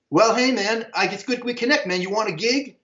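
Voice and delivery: high, breezy re-enacted offer; acting like nothing happened. Calling estranged friend about a gig, casual. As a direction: toss out an offer as if no time passed. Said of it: "I acted like nothing was even".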